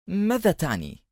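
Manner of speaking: high, soft, cautious question; wary. A narrator's reading. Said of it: "وبدا الحذر واضحا في صوته". (سؤال حذر بنبرة عالية خافتة)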